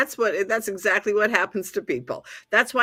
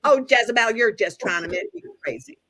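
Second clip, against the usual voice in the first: Texas accent; 2 semitones higher than usual. Shown as a demonstration. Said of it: "I put on Carol's Texas accent".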